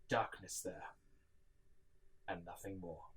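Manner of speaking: soft, hushed wonder. A narrator's reading. Narrator peers into the empty dark, hushed. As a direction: let it sink into silence.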